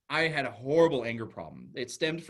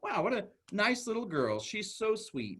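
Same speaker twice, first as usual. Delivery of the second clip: admiring; 6 semitones higher than usual. Retold or imitated. Teller voices his admiring first reaction.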